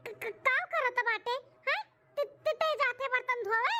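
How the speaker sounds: stammering, hesitant daughter-in-law; nervous stammer. Acted. Daughter-in-law asks mother-in-law, with a nervous stammer. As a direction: trip over the first sounds, nervously.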